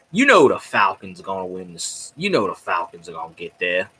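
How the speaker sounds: butter him up in a mock-polite voice; mock nicest voice. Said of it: "in his nicest voice you can think of".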